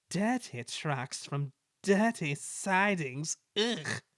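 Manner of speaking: slow, a mild grumble; grumbling. Acted. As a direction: mutter your disgust at the trucks. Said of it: "he grumbled".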